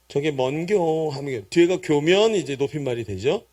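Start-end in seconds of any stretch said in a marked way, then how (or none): 0.1-1.1 slow, drawn-out Gyeongsang dialect question; polite Gyeongsang dialect. Shown as a demonstration. Preacher shows the honorific form, in Gyeongsang dialect. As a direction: stretch out the polite Gyeongsang ending. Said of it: "높임말로 하면".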